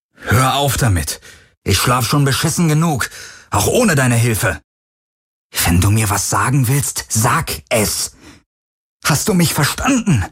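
hammering each demand home; angry demands. A narrator's reading. Garland demanding the Helix stop, angry shouting.

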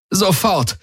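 high, shaken command; trembling urgent call. Acted. Tari orders a healer over her comm, high and shaken. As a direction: demand it at once in shock. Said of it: "rief sie mit zitternder Stimme".

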